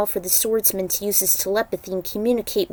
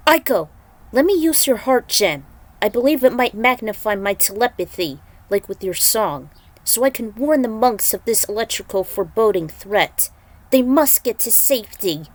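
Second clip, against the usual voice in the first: Kenshi's voice, raised and pressing; urgent swordsman voice; 3 dB louder than usual. Acted. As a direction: call to Aiko, then press on with urgency. Kenshi voiced asking for gem.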